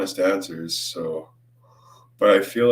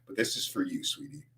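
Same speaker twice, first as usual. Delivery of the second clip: soft sarcastic sweetness; 9 dB quieter than usual. Real, not acted. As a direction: coo it with fake sweetness. Sarcastic address to troll.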